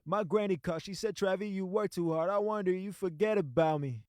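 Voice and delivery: raw, unprocessed vocal playback; the dry take before the chain; before processing. Shown as a demonstration. Playing the vocal before the mix, dry vocal. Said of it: "before and after".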